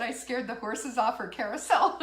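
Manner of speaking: reading a comment through laughter; laughing as she reads Catherine's line; laughing quote. Retold or imitated. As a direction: laugh while repeating it. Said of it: "Catherine said".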